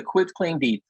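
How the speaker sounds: "quit claim deed" with a T closing "quit"; correct pronunciation. Shown as a demonstration. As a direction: pronounce "quit claim deed" with "quit", never "quick". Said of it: "pronunciation and spelling".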